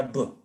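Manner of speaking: plain "b" for bet with no vowel. Shown as a demonstration. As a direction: say "b" as a bare b sound. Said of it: "entonces suena". ("b" como b sola, sin vocal)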